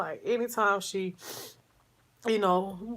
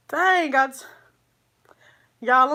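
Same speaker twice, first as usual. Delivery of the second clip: fighting back tears; 5 semitones higher, 7 dB louder than usual. Real, not acted. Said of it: "I'm trying not to cry".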